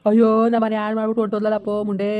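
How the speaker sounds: comic lament for a runaway wife, half-sung; hammed-up crying over his loss; mock wailing. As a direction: ham up the grief of a jilted husband. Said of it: "ಮಾವ, ಅಳ್ಬೇಡಿ".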